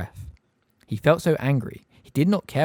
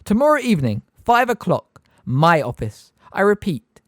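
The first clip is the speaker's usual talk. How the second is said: Umbridge; 9 semitones higher, 7 dB louder than usual. A narrator's reading. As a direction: spell it out with sugary menace. Umbridge sets detention.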